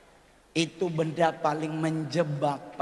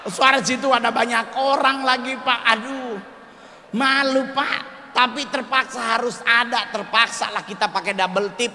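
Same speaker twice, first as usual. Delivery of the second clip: much higher and louder, near-shouting panic; frantic comic rant; 9 semitones higher, 7 dB louder than usual. Retold or imitated. Comedian telling the crowd of the koteka mishap, high frantic shouting. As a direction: rant like you're mortified in public.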